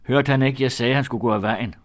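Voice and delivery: loud, high, indignant demand; vredt råb. A narrator's reading. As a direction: shout it like an order being ignored. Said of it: "råbte min fætter". (vredt, højt råb)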